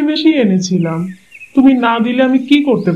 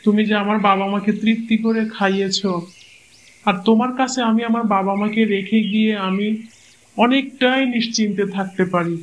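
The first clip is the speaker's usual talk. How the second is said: soft grateful praise; 7 dB quieter than usual. Acted. Husband softly praises wife.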